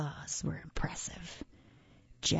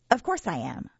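louder, sharp retort; snapping; 6 dB louder than usual. Acted. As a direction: snap back offended. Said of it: "she snapped".

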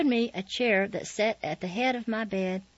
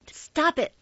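growl; 7 semitones higher, 4 dB louder than usual. A narrator's reading. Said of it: "growled the big voice".

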